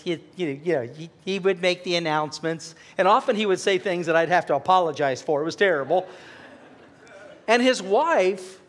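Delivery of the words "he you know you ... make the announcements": a light put-on voice for the old man Al; imitating Al. Pastor imitates church member Al making announcements, lightly voiced. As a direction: slip lightly into how Al spoke. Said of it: "He kinda talked like this".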